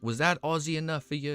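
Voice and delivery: light mock Aussie accent; imitated Australian accent. Streamer quoting an Australian he met, imitated Aussie accent. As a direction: play an Australian checking you're impressed. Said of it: "never heard an Australian accent".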